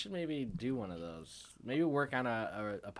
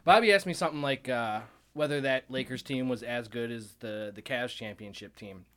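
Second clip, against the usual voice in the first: laughing while talking; 3 semitones higher, 7 dB louder than usual. Real, not acted. Voice through laughter.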